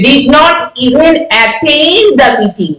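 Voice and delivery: very slow, with attend stretched out; stress on attend. Shown as a demonstration. Teacher showing how even adds force, stress on attend. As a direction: draw out attend for emphasis after even. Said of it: "সেটিকে জোর দেওয়ার জন্য".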